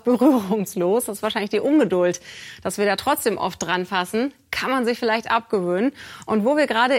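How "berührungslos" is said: berührungslos picked out with clear emphasis; stress on berührungslos. Real, not acted. Presenter stressing how the paper dispensers should work, emphasis on berührungslos. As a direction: lean on the word berührungslos. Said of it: "die Betonung liegt auf".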